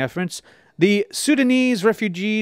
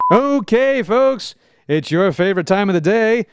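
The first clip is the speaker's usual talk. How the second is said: excited announcer; 3 semitones higher than usual. Acted. Announcer opens wisdom segment.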